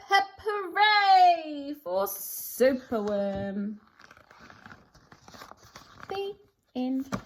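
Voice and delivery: lively storybook read-aloud with sing-song rhymes; animated picture-book narration; reading to children. A narrator's reading. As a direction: read it like bedtime with a small child.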